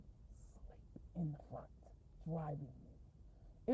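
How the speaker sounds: slow, fading whisper; drowsy whisper. Pretend. Acting out falling asleep while driving Uber passengers, slow whisper. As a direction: whisper it slowly as if nodding off at the wheel.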